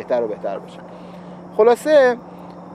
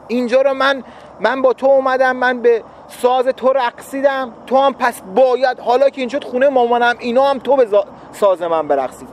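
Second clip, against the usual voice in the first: raised, insistent tit-for-tat demand; bargaining spouse; 5 semitones higher than usual. Retold or imitated. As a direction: press your partner to pay you back. Spouse demanding equal give-and-take.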